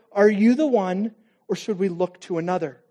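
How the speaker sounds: slow, drawn-out asking; earnest slow question; slow pleading question. Shown as a demonstration. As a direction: lean on the one, let it fall at the end. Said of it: "because he wants to know".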